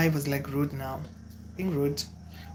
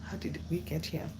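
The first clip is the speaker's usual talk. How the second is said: replaying in her head; 8 dB quieter than usual. Ghosted woman wondering what happened, quietly looping. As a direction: turn it over quietly, like a looping tape. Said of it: "playing it in my head like a cassette".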